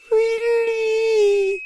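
a very high, thin whistling creature voice; high whistled cry. Acted. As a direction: whistle the word like a strange little being. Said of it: "whistled the pyramid".

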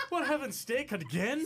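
slow, high Southern drawl; Southern accent. Acted. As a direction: drag it out in a Southern twang. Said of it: "Southern accent".

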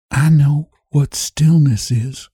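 slow, level, distant voice; queer monotone. A narrator's reading. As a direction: say it flat and far away, slowly. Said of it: "in a queer, monotonous voice".

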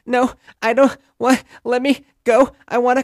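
put-on high, loud whiny toddler. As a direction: squeal it like a fussy toddler wanting down. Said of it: "she's like".

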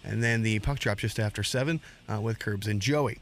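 fast, punchy radio host read. Acted. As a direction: sell the show open like a DJ. Host reads the show re-open.

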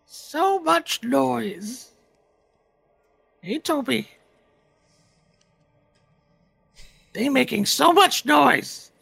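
high, slow eerie echoing voice; drawn-out creepy voice from the dark; dark whisper behind you. Acted. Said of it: "A voice echoes out in the chamber".

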